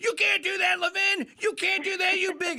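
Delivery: put-on high scream. Retelling another speaker's reaction to a threat: imitating someone screaming. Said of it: "and then you screaming".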